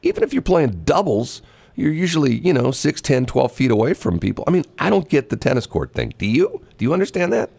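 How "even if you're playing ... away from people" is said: high, disbelieving mock protest; incredulous. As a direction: act out the baffled objection. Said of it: "I'm going like".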